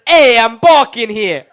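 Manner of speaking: loud, slow New York chicken squawk; a chicken yelling at traffic in New York; clucking like a hen. Acted. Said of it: "This is my impression of a chicken crossing the streets of New York".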